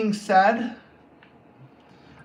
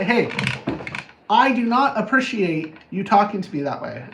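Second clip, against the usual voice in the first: firm, louder, controlled voice; assertive; 4 dB louder than usual. Acted. Setting a boundary with someone disrespectful, firm assertiveness. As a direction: state it firmly without yelling. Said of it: "difference between aggression and assertiveness".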